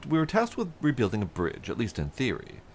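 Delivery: a hint of a welcoming foreman; friendly supervisor. Player voicing a supervisor greeting a traveler, hearty. NPC dialogue continues.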